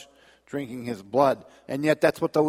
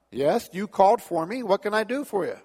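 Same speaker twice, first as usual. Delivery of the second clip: booming God voice; 6 semitones higher than usual. Acted. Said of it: "a booming voice".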